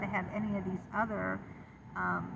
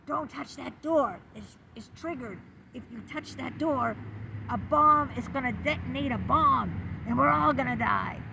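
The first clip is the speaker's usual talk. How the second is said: retold paranoid panic; 3 semitones higher, 5 dB louder than usual. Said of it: "hysterical, um, like".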